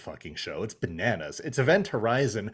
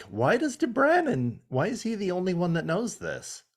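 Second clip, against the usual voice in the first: mock exasperated question; 9 semitones higher than usual. Recapping the show to co-host, mock exasperated. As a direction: act out your baffled objection. Own retold objection.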